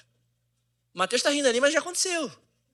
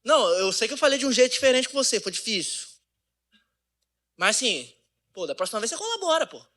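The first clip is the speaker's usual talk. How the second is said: mock annoyed wife; 4 semitones higher than usual. Acted wife's backhanded apology.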